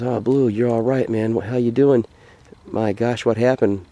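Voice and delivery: storyteller voicing a worried dog owner; acted concern. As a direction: check on your dog, a bit dazed. Waking man checks on his dog.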